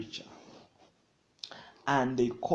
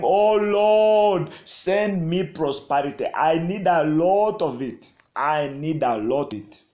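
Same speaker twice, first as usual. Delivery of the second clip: crying out; 7 dB louder than usual. Acted. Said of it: "I'm saying".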